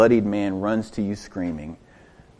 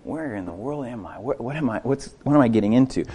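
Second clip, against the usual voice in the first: anxious thought; 7 dB quieter, faster than usual. Acted. Disciple's inner worried thoughts.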